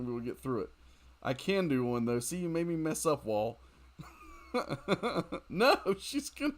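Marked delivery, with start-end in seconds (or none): 5.5-6.5 rising into a much higher, louder panicked yell; real game panic, climbing into a shriek. Real, not acted. Gamer panics at enemy attack.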